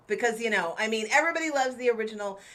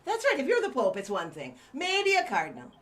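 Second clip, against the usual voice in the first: bad stage Irish accent. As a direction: lay on a thick Irish lilt. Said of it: "do not do good, uh, Irish accents".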